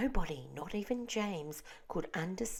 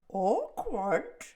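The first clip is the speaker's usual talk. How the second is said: gloomy earthworm cry; 4 semitones higher, 6 dB louder than usual. A narrator's reading. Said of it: "cried the earthworm".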